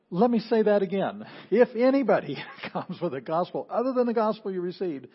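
insistent, forceful quoting of a warning; emphatic repetition. Retold or imitated. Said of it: "repetition again for emphasis".

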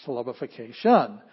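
"syllabification" with a loud, exaggerated hit on the final SHUN; misplaced stress. Shown as a demonstration. Teacher jokingly showing where to hit the word, "syllabification" stressed on SHUN. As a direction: save all the force for SHUN in "syllabification". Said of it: "where do you hit the word".

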